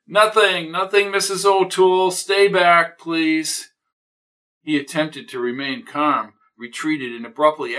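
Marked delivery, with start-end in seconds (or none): 0.1-3.7 loud, higher "stay back" in a hurry; urgent loud warning. Acted. Neighbor blocks Mrs O'Toole, urgently loud. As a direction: hold her off urgently. Daniels keeping her out.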